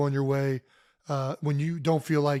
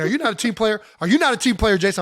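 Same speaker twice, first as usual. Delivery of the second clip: higher, louder mock coach scolding; imitating angry coach; 5 semitones higher, 5 dB louder than usual. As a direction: play the furious coach, hammed up. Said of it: "He was furious at me".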